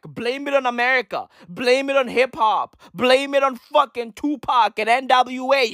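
ordinary talk, nothing marked

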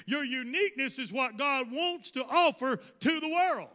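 emphatic preacher cadence; forceful preaching. Real, not acted. Preacher telling listeners why God wants them unique, forceful preaching. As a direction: press the point home with strong stresses.

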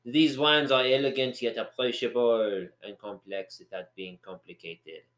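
put-on a rough, half-hearted French accent. Reading a wine label to a friend in a put-on French accent. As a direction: read it in an amateur French accent. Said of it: "my French accent needs a lot of work".

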